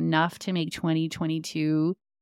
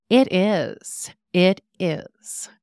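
emphatic, louder mimicry of a proud friend; imitating friend's self-assured attitude; 4 dB louder, slower than usual. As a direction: lean fully into it, imitating her Bavarian confidence. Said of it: "so her attitude was this".

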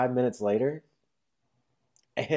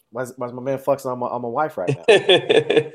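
mock outrage; 2 semitones higher, 5 dB louder than usual.

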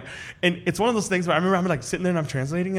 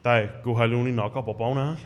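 laughing reply; 3 semitones lower than usual. Retold or imitated. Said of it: "I'm like".

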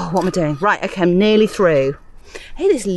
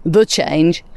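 THE drawn out before change; stress on THE; 2 semitones lower than usual. Real, not acted. Podcaster hinting at the menopause, stress on THE. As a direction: lean slowly on the word THE.

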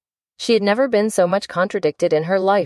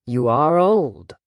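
poem recitation; slower than usual. Acted. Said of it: "said the youth".

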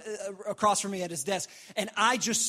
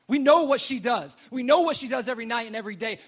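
louder, accusing mock outrage; indignant judgement; 7 dB louder than usual. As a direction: judgmental men's scandalized thoughts. Voicing judgmental men's disgusted thoughts.

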